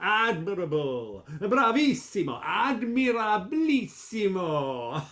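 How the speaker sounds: laughing, sung-out bravos; gushing applause. Acted. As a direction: cheer the singers to the rafters. Applauding the singers.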